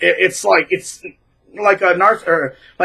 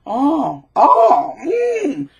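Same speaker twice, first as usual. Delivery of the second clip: mock eager agreement; 7 semitones higher, much slower than usual. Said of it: "they're like".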